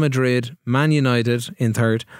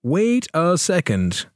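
higher, drawn-out "wait a second"; slow realisation; 4 semitones higher, much slower than usual. Real, not acted. Host checking the league table, slow and deliberate. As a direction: stretch each word as it dawns.

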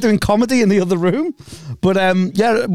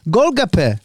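repeated in an imitated South Asian accent; copying a South Asian pronunciation. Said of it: "you're trying to make me sound like the dad from East is East".

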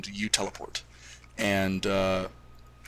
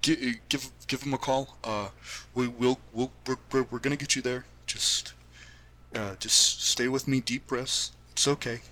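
soft, hushed calming; soothing parent; 3 semitones higher, 4 dB quieter than usual. Acted. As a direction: talk her down gently.

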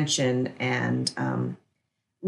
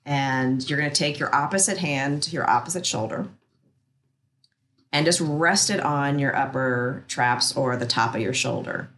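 soothing massage murmur. Acted. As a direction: guide them gently into rest, unhurried. Guides an acupressure relaxation.

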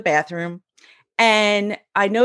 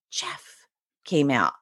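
weak, barely-there whisper of Jeff; lost voice; 6 semitones lower, 5 dB quieter, slower than usual. Retold or imitated. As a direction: try to call out but no voice comes. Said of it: "Where's my voice?".

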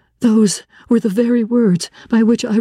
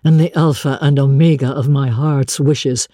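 lightly lowered, brooding man's voice; a blind master confiding his anguish; a hint of a grave older man; Rochester's voice; 7 semitones lower than usual. Rochester recounting to Jane.

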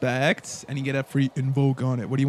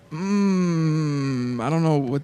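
imitating Father; 3 semitones lower, slower than usual. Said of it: "he said it like this".

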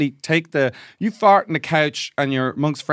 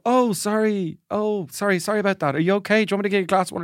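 higher, solicitous apology; mock fussing friends; 6 semitones higher than usual. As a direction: fuss over them like a worried host. Friends fuss over sick one.

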